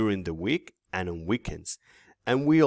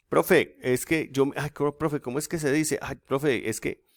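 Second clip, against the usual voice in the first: mock student, a bit higher, pleading; imitating stuck student; 6 semitones higher than usual. Teacher mimics a student stuck mid-test, lightly pleading. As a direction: play a student groping for words. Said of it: "that's Spanish, that's not fluent".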